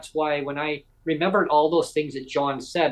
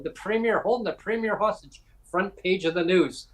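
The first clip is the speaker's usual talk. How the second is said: mock headline; 6 semitones higher than usual. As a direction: announce a scandal in jest, pitched up. Imagines joking news headlines.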